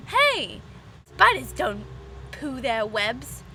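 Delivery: high, loud objection, slowing at the end; nitpicking commenter butting in; know-it-all correction. Pretend. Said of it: "someone who's like".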